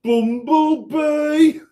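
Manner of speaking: loud, high, drawn-out Black Country accent. Shown as a demonstration. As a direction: boom it out slowly in broad Black Country. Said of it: "in a black country accent".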